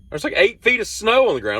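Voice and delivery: high, disbelieving protest; incredulous. Retold or imitated. Refusing roommate's errand in the snow, high disbelieving protest. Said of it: "and I'm like".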